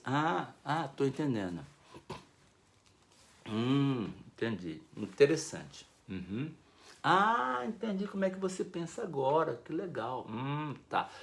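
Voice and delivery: soft, low murmured replies; quiet attentive listening. Shown as a demonstration. Listener encouraging the speaker, soft murmurs. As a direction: murmur along softly as they talk. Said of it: "Tipo assim".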